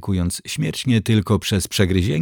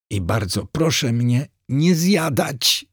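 nervous inner plea; 5 semitones higher than usual. A narrator's reading. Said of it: "dodał w myślach".

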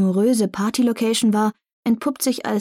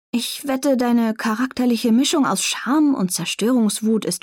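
mocking; 3 semitones higher than usual. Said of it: "ein spöttischer Tonfall".

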